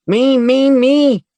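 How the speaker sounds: very high, loud short bursts; shrill as a ship's whistle; high-pitched shouts. A narrator's reading. Little girl shouting to be chosen, high and loud. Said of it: "high-pitched voice was like a ship's whistle as she shouted".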